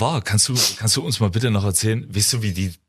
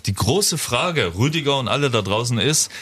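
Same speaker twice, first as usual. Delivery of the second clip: game show host; slower than usual. Acted. Hosts the quiz game segment.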